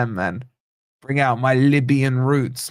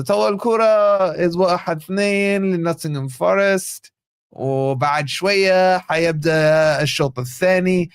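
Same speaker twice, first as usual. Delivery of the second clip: a hammed-up Libyan Arabic voice to warm up the accent. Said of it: "to get the English Libyan accent".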